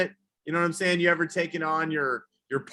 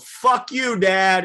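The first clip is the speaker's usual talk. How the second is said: higher, louder mock yell; 6 semitones higher, 6 dB louder, much slower than usual. Comic yelling at the yoga teacher in a mock yell. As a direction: snap it out like a bratty kid. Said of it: "I yelled".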